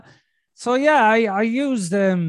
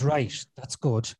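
calm self talk; 3 semitones lower than usual. Retold or imitated. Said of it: "So then I went".

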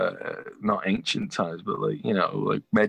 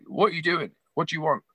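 much higher, lightly imitated brusque questions; a singer; 8 semitones higher than usual. Busy rocker challenges the fan, mock aggressive. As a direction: mimic an impatient demand. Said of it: "he talked like that".

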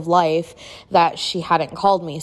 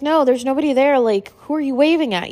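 high gentle voice; 7 semitones higher than usual. Retold or imitated. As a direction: answer a confused mother gently. Aunt answering grandma.

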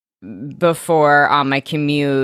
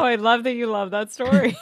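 imitating Janet; 4 semitones higher, 3 dB quieter, faster than usual. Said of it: "She's like".

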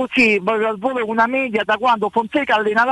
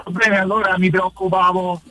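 on speakerphone. Real, not acted. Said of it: "so in viva voce perché sto guidando".

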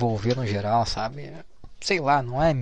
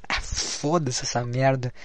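ordinary talk, nothing marked

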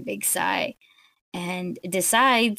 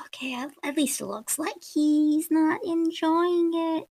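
relieved; 8 semitones higher than usual. Retold or imitated. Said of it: "we'll just go".

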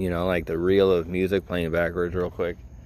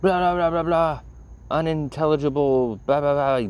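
mock hollering; 8 semitones higher than usual. Boss screaming at Debbie, mock hollering. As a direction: holler nonsense like the angry boss. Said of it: "hooting and hollering and screaming".

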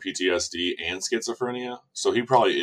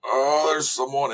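slow, higher, airy "oh, there's someone"; mock realization; 7 semitones higher, slower than usual. Imagining herself in the bath, slow mock realization. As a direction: play the bather slowly catching on. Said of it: "I'd be like".

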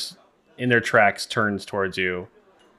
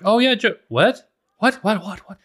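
startled crowd chatter; 11 semitones higher than usual. Acted. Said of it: "there's murmuring across the crowd".

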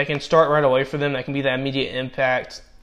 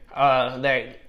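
voice cracking. Real, not acted. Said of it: "my voice just cracked there again".

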